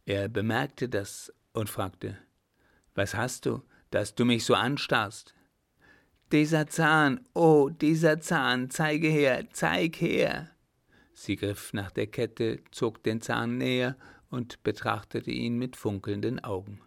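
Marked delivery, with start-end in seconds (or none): 6.3-10.5 higher, louder, breathless with excitement; she's found what she's been searching for; excited discovery. Acted. Girl recognizes the tooth, excited.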